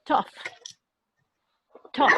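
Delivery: Tough said with the gh as an F sound. Shown as a demonstration. Teacher modeling the F sound in Tough. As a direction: end Tough on a clear F. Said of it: "suena como una F".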